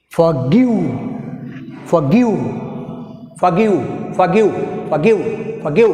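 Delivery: forGIVE, weight on GIVE; teacher drilling forGIVE, stress on GIVE. Shown as a demonstration. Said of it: "pronounce చేయాలి మనం".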